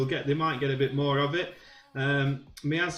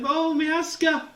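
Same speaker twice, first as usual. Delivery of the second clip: dismayed groan; 11 semitones higher, 5 dB louder, slower than usual. Real, not acted. Keeper mistake, commentator groans.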